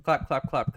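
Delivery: spoken claps in a row; evenly repeated mock applause; imitated clapping. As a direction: mimic an audience clapping with the word. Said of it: "it was more clapter rather than laughter".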